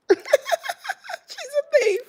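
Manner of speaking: high, very slow laughing line; real laughter, drawn way out. Real, not acted. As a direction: laugh through it, stretching every word. Laughing about the thief.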